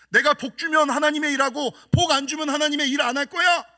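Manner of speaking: building to a loud rebuke; God's rebuke. Retold or imitated. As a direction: scold like a disappointed father, rising. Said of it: "그런 음성".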